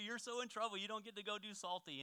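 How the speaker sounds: gleeful kid mocking an angry sibling; mocking taunt. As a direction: rub it in like a gloating little brother. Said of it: "I'm just making fun of him".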